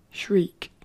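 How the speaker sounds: a mock spooky whisper on "shriek"; whispered reveal. Vlogger jokingly announcing this week's quote in whisper. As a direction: whisper it like a secret punchline.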